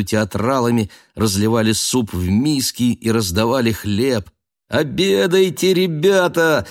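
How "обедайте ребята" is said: high, loud jolly cook's call; shouting cooks. A narrator's reading. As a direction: call the audience to dinner. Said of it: "кричали повара". (громкий весёлый крик поваров)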